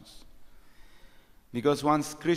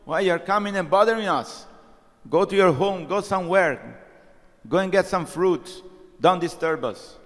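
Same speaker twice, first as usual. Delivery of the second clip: higher, louder indignant scolding; angry brahmins; 3 semitones higher, 4 dB louder than usual. Retold or imitated. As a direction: scold the pesky children away. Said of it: "They become very angry".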